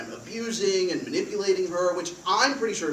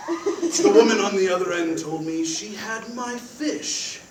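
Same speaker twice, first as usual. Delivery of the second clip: agent voice; 5 dB louder than usual. Acted. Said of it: "This agent voice is super cool".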